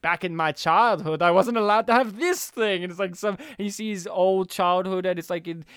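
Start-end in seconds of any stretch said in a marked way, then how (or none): 0.0-2.8 lightly voiced villain's backstory, emphatic; cartoon villain. Retelling the villain's childhood story, lightly put-on villain voice. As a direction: imitate a villain lamenting his childhood. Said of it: "the other story of him is".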